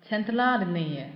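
Центральные slowly, with a long stressed а. Shown as a demonstration. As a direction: draw out the а in Центральные. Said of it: "重音在这个".

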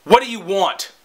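curt cashier with no welcome; imitated rude attitude. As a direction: mimic a dismissive server, dropping the friendliness. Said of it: "her whole fucking attitude, her whole demeanor".

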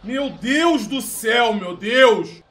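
slow, stretched-out loud exclamation; shocked slow shout. Real, not acted. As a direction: draw it out in disbelief. Shocked by the goal.

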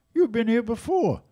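mock astonished drummer; amazed accusation. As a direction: sell his astonishment that the kid knows the photos. Zutty amazed at named photos.

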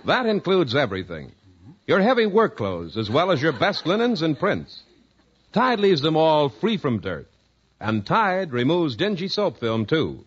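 polished announcer selling soap; measured sales pitch, each phrase neatly set apart; radio ad read. Acted. Announcer sells Tide to housewives, measured commercial pitch.

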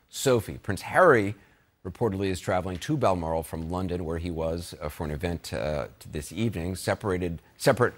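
steady anchor news delivery; news read. Acted. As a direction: read the update like a live broadcast anchor. Anchor news read after break.

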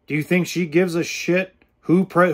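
ordinary talk

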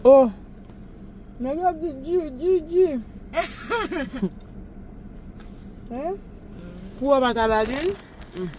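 very soft, almost whispered; hushed. Real, not acted. Parent whispering to sleepy toddler, hushed. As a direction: hush it right down.

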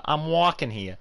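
put-on lightly done Jersey accent. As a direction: throw out a token Jersey accent line. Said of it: "all I can do in a Jersey voice is".

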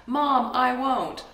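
put-on loud, high defiant kid's shout; child yelling back. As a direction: act out the stubborn three-year-old. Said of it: "He's yelling back".

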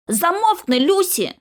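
high, sharp order to shut up; angry retort. A narrator's reading. Squabbling teammate silencing Lucy, angry. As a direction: cut her off crossly.

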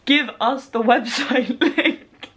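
slow, drawn-out mock demand with a laugh; imitated impatient followers. Vlogger quoting followers before launch, mock demanding. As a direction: mimic impatient fans, stretching each word. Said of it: "and everyone's just like".

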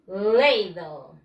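"Ladle" said "LAY-dl", dropping low; model pronunciation. Shown as a demonstration. Teacher gives pupils cucharón in English, model pronunciation. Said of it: "Cucharón in English".

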